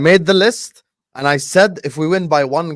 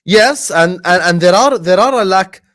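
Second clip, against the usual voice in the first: excited; 5 semitones higher, 7 dB louder than usual. Real, not acted. Cutting in to argue.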